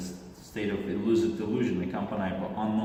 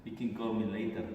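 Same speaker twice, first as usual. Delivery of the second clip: higher-pitched imitated Russian accent; Russian-accented come-on, pitched up at the start; 3 semitones higher than usual. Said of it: "that was the Russian accent".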